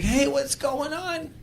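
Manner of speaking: slow, high, strained greeting; pained happy voice. Retold or imitated. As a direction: sound happy yet hurting. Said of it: "sound like they're in pain".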